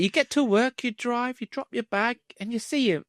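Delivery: dropping to a near whisper; hushed. Pretend. Imagining seeing the coworker who owes money, hushed. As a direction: hush it as if he's right there.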